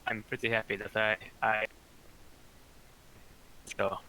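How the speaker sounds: breaking up on a bad connection; choppy cut off endings. Real, not acted. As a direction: audio dropping out mid-word. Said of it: "you're cutting out".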